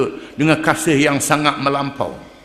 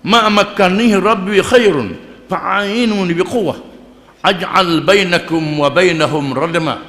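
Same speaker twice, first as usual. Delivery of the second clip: slow melodic Arabic chant of the verse; measured Quranic recitation, drawn out; 2 semitones higher than usual. Acted. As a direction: intone it like tilawah.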